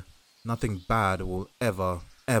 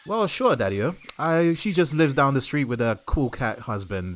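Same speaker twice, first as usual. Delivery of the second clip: sixties hipster voice; 4 semitones higher, 5 dB louder than usual. Acted. Tony tells Ken about Wanda, sixties hipster voice. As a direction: lay it on like a groovy sixties cat. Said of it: "why has your voice changed again?".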